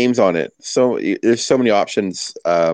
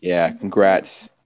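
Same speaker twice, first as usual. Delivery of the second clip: slow, dragged-out congrats; begrudging; much slower than usual. Pretend. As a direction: say it like it hurts. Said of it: "I begrudgingly".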